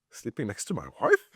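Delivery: halting, questioning echo with a rise at the end; mildly baffled, retold disbelief; incredulous echo. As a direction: query it back in mock alarm. Teenager's startled echo of the instruction.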